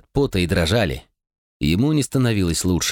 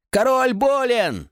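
much higher, slow alarmed call; alarmed cry; slower than usual. Acted. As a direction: call out in panic for the guards. Messenger cries for help.

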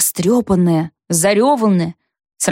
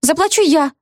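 high, sudden blurt; a quick high outburst; 8 semitones higher than usual. Acted. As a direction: burst in before anyone else. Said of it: "опять вырвалась Зося".

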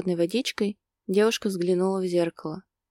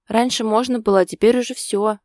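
higher, louder gloomy complaint; 4 semitones higher, 7 dB louder than usual. A narrator's reading. Girlfriend on friends now unavailable, gloomy. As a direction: lament it with some force. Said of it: "мрачно ответила Лена".

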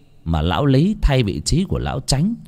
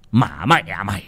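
cursing. Acted. Landlord beating servant Nô, furious cursing. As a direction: spit the curse at the boy. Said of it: "miệng chửi đến bã cả bọt mép".

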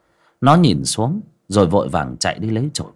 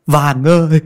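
calling out; 6 semitones higher, 6 dB louder, slower than usual. Acted. Old man calls servant.

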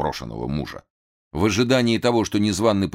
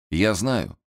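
plain reading voice

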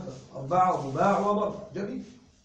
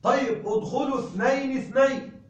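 a bit higher, calling to the door; calling students in pairs; 5 semitones higher than usual. Retold or imitated. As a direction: call the pairs in. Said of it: "فأقول". (المعلم ينادي: ادخلوا اثنين اثنين)

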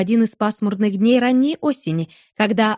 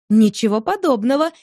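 playful. Acted. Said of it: "игриво отозвалась Берта".

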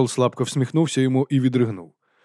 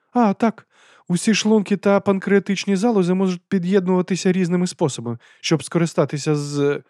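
high, hearty aristocratic lady; lady's voice; 8 semitones higher, 4 dB louder than usual. A narrator's reading. Lady explains dragon stomachs to Vimes. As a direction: lift the voice for the lady.

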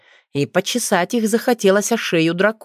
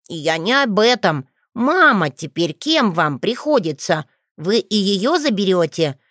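stern; 2 semitones higher than usual. Acted. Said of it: "смотрит на отца так сурово".

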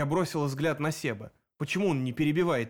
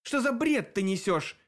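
indignant; 6 semitones higher than usual. A narrator's reading. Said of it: "возмутился Дэн".

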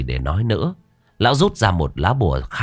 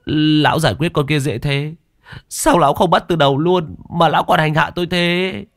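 higher, fast complaining, rising in protest; whiny young apprentice; 7 semitones higher than usual. Acted. Luận complains to old master.

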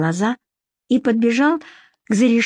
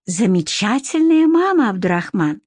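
polite. Acted. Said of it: "вежливо произнесла Вика".

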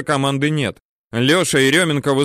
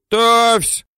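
much higher, louder bellow; yell; 11 semitones higher, 5 dB louder than usual. A narrator's reading. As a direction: shout the ready order from above. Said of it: "Теренчук орёт сверху".

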